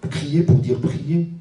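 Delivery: each word laid out slowly and deliberately; slow emphasis. Shown as a demonstration. Rabbi slowly stressing the translation for the congregation. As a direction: spell out the meaning slowly.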